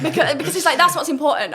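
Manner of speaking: real laughter spilling into the sentence; laughing. Real, not acted. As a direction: talk while still cracking up. Laughing at own debate accent.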